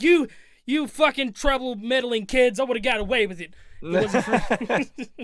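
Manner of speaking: slow, loud cartoon villain rant; Scooby-Doo villain. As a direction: snarl like an unmasked villain. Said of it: "It's like".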